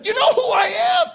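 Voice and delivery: high-pitched question, rising on "I am"; self-important challenge. Acted. Old movie guy challenging another, self-important. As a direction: play a big shot from an old movie. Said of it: "where one guy said".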